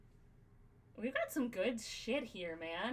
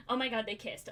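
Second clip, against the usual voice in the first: mock fangirl squeal; 2 semitones higher, 4 dB louder, faster than usual. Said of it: "start fangirling over my own characters".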